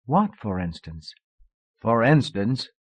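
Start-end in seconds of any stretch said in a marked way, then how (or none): 1.8-2.7 laughing through the words; with a light laugh, amused. Acted. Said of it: "he laughed".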